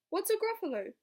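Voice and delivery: high, loud baffled question; startled fox voice. Acted. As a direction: fox who has never heard of it. Fox asks.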